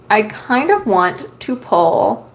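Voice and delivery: halting speech with hiccups. Real, not acted. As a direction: talk while hiccuping. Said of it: "I have the hiccups".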